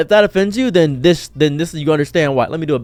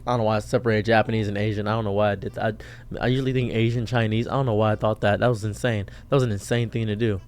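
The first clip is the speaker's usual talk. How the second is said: lower, softer self-questioning; puzzled aside; 6 semitones lower, 7 dB quieter, faster than usual. Real, not acted. Vlogger questioning why he separated two groups, quiet aside. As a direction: drop the voice and wonder at your own slip.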